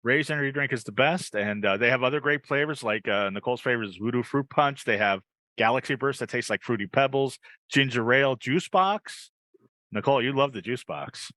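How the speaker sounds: upbeat host selling a drink; live ad read. Acted. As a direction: pitch it like a live commercial.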